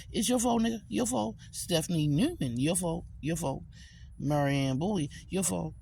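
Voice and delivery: high sharp "your fault"; accusing. Real, not acted. Blaming the listener, high and sharp. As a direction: jab every "your fault".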